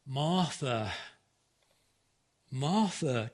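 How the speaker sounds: gentle, tender repetition of the name. Shown as a demonstration. Jesus gently calling Martha, tender and soft. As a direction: say her name softly, with care. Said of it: "can you hear the tenderness".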